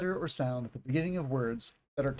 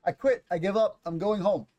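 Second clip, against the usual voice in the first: louder, higher whiny give-up; frustrated kid; 4 semitones higher, 5 dB louder than usual. Retold or imitated. Child giving up on the tongue twister, louder whine. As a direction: throw in the towel like a fed-up child. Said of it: "How are you going to say this tongue twister".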